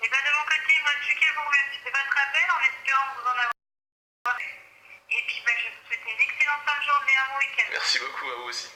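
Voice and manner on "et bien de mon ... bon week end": tinny phone call voice; over the phone. Real, not acted. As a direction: voice through a phone line. Phone agent speaking.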